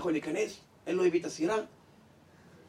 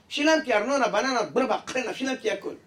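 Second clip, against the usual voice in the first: indignant protest; 4 semitones higher than usual. Acted. Man defends himself to caller.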